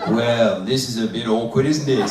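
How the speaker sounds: lightly deepened husband puppet; awkward small talk as the husband; a hint of deep male character; man's dummy voice. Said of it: "What about a voice like this?".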